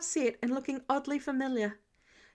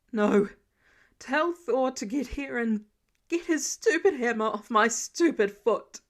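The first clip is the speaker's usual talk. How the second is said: pained irritation; 5 dB louder than usual. Acted. Tony in pain snapping at Friday.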